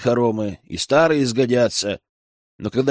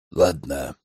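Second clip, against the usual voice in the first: low, heavy, reluctant consent; a lightly voiced elder giving in; grudging yes; 10 semitones lower than usual. A narrator's reading. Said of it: "после долгого молчания сказал Радомир". (низко, тяжело, нехотя)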